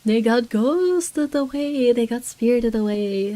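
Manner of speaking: slow, stretched mock-eerie words; drawn-out joke. Player jokes about vanished guards, drawn-out delivery. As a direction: draw each word out playfully.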